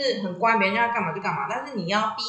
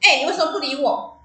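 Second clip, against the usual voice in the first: annoyed confrontation; 5 semitones higher, 4 dB louder than usual. Retold or imitated. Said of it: "我就很不爽".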